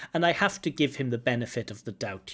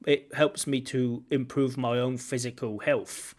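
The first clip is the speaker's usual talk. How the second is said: put-on London accent. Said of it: "That's my bad London accent".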